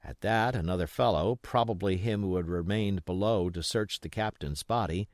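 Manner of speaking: ordinary delivery, nothing marked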